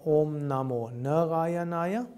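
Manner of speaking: Om Namo Narayanaya with a short first A, like "Nuh-rayanaya"; mispronounced vowel lengths. Shown as a demonstration. Teacher showing what not to say, Narayanaya with its first A cut short. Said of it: "It's not".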